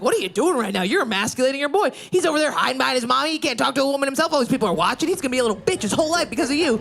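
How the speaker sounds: a touch of retold fury; fast ranting. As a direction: rattle off the insults at speed. Berating father at airport.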